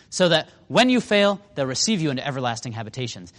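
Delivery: lightly sarcastic, quickening at the end. Retold or imitated. Jesus throwing it at the Pharisees, sarcastic. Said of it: "you can hear the sarcasm here".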